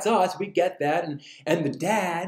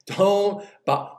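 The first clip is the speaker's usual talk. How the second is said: higher, cut-off holler; mock yell; 6 semitones higher than usual. Preacher replaying the neighbor's refusal, mock yell. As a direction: start the drawn-out yell once more. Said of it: "yells out".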